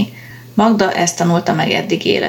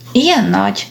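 amazed; 2 semitones higher than usual. Acted. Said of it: "csodálkozott Magda".

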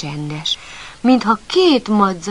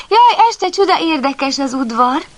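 excited puppy; 7 semitones higher, 6 dB louder than usual. Acted. Puppy excited by night yard.

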